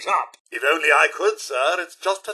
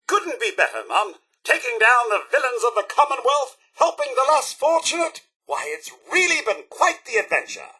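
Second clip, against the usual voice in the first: bright-spirited, higher-pitched delight; cheerful enthusiasm; 5 semitones higher than usual. Acted. Butler telling Mum about their adventures, cheerful and keen. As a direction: gush politely about a grand adventure.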